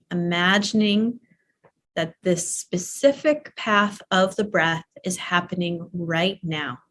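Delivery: calm, unhurried meditation guide with long pauses; easy, even voice for leading breath practice; guided meditation. Real, not acted. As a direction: gently guide them through imagined breathing.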